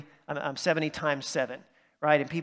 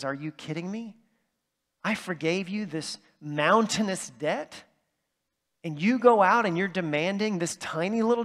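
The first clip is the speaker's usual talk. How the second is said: incredulous retold rebuke, questions lifting; acted-out indignant master; mild indignation; 2 semitones higher than usual. Master rebukes the unforgiving servant.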